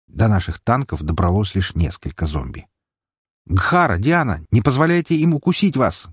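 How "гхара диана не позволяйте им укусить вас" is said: raised, urgent warning call; shouted warning. Acted. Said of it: "крикнул я".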